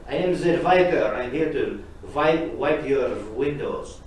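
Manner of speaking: loud booming declaration, slowing on the wipe; punchline villain voice. Acted. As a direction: deliver the punchline big and slow. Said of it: "maintenance guy saying".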